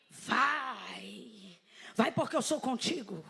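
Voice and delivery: low, drawn-out prophetic "vai"; mock prophetic call. God sending someone as congregation hopes, low mock-solemn call. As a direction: intone it like a grand commissioning. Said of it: "um chamado nível vai".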